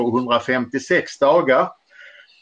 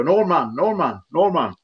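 mildly raised call, a little higher; 4 semitones higher than usual. Retold or imitated. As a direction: call a teammate's nickname across training. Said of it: "Paul Allen ropade då".

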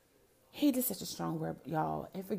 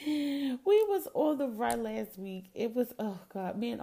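laughing excitedly; 7 semitones higher, 6 dB louder than usual. Real, not acted. Laughing about adventure with aunt.

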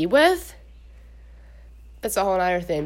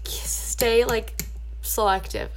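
whisper; 3 dB quieter, much slower than usual. Real, not acted. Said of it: "whispered repeat".

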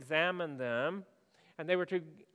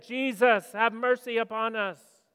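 loud, high call for mercy; projected, pleading shout; crying out from afar; 5 semitones higher, 10 dB louder than usual. Acted. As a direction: call out across a distance. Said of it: "They had to cry out from a distance".

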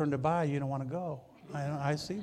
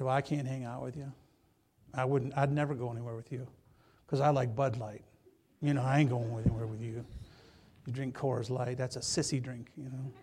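mock teasing; 2 semitones lower than usual. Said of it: "I just kid him".

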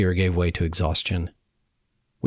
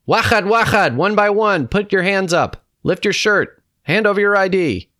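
loud, high-pitched soldier's commands; high, forceful military yelling; barked orders; 13 semitones higher, 5 dB louder than usual. A narrator's reading. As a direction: shout each order at the captives.

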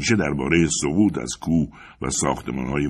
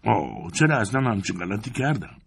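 higher-pitched moan of regret; grumbling; 4 semitones higher than usual. A narrator's reading. Climber regretting the whole climb, grumbling. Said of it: "و غر زدم".

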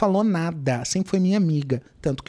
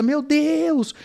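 retold shouting; 6 semitones higher than usual. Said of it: "Comecei a gritar dentro de casa".

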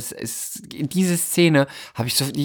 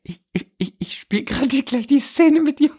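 much higher, stammering giggly voice; nervous fangirl; 11 semitones higher than usual. Pretend. Fan meets her idol on set, high nervous stammer.

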